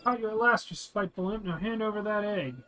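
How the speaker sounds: triumphant hero voice. Acted. Streamer voicing the hero cornering the thief, triumphant. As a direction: gloat a little as you corner the imp.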